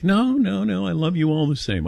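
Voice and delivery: high mock protest from the wife; a touch of a protesting Italian mother. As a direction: insist sweetly like an Italian mother. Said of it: "But she'll be like".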